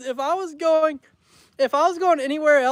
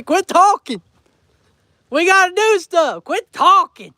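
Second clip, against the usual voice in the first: higher, louder imitation of the wife nagging; mock wife voice; 8 semitones higher, 5 dB louder than usual. Husband imitating his wife telling him to stop talking, mock higher voice. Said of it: "her nice way of telling me".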